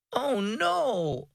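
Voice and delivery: put-on high, disappointed child's wail; Oh no wailed high by a disappointed girl. A narrator's reading. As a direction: let it sag with letdown. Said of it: "Aubrey wailed".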